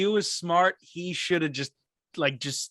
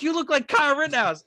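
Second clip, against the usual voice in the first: gym woman quoted; 9 semitones higher than usual. Retold or imitated. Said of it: "She's like".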